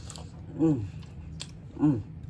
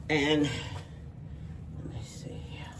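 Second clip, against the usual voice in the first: whispering; 6 dB quieter, much slower than usual. Real, not acted. Muttered while cutting meat.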